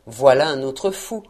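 low-pitched grumbled aside, still audible; muttering. A narrator's reading. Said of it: "murmura Scrooge". (murmure bougon et grave)

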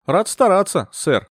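mock the master with zeal; ironic. A narrator's reading. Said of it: "звучала ирония".

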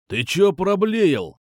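high-pitched, drawn-out challenge; indignant thug, slow and high; thug's indignant challenge. A narrator's reading. Thug snaps back at the narrator.

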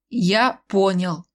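very slow, resigned; slow weary admission; sighing. Acted. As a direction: give in with a sigh. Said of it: "вздохнул Цай Тирлин".

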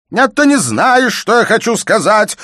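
a pompous man losing control, squealing; falsetto outburst. A narrator's reading. Father loses his composure and cries out at his daughter in falsetto. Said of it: "вскрикнул фальцетом".

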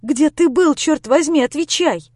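high, loud angry demand; tearful demand. Acted. Lera demanding Grisha answer where he was, tearful anger. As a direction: shout it at him through tears.

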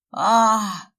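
loud hammed-up yell of pain; inhuman yell. A narrator's reading. Fyodor pretending Sveta burned him, loud mock yell. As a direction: scream like he's been scalded. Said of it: "заорал Фёдор нечеловеческим голосом".

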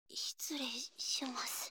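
slow soft whisper. Acted. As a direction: breathe the words out slowly. Slipping quietly into the futon.

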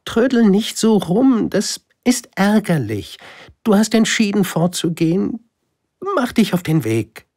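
high, loud voice of a proud flower holding back tears; brisk and sharp, hiding her hurt. Acted. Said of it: "Dann fügte sie hinzu". (stolze Blume, hoch und laut, drängend)

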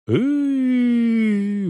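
high drawn-out howl of fear; frightened howl. Acted. Стефан воет от страха, когда Сыч трясёт его. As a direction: wail high in terror. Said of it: "выл Стефан".

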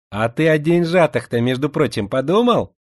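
slushy sh for s. Acted. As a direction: lisp every s into a slushy sh. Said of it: "своим шепелявым голоском".

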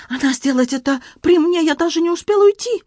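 excited Frenchman in broken Russian, high; Antoine voice. Acted. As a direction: play the flustered Frenchman, pitched high. Antoine speaks.

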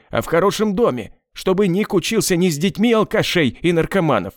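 husband defending himself to his crying wife, angrily; angry outburst. Acted. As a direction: fire back in rising anger.

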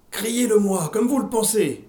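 plus aigu et plus fort, exhortation de prêcheuse; hurlé. A narrator's reading. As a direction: crier un ordre à la foule. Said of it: "hurla Madame Carboni". (la prêcheuse hurle à la foule)

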